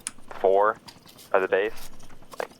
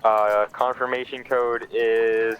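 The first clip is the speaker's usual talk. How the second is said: drawn-out, stalling answer; slow it down, buying time; much slower than usual. Retold or imitated.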